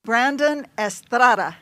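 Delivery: "Estrada" with a tapped Spanish r, es-TRA-da; Spanish pronunciation. Shown as a demonstration. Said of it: "Spanish accent".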